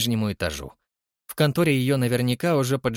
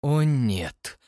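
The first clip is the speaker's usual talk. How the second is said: sighing; 2 semitones higher than usual. Acted. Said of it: "вздохнула Тесса".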